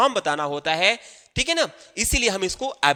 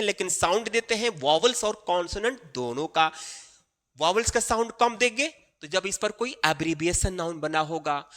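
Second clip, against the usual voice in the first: usual speaking voice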